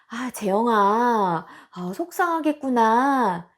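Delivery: put-on slow, gentle comfort for a crying child; a hint of a tender mom easing her daughter; soothing mother. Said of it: "일단 위로를 해주는 거지".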